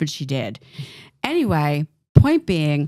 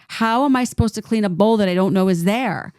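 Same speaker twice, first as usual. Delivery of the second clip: high-pitched, exasperated mock yelling, rising as it goes; retold screaming; 5 semitones higher than usual. Teen defending herself to her mother over an unseen bowl, retold screaming. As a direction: protest in a raised, reenacted outburst. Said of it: "I started screaming at the top of my lungs".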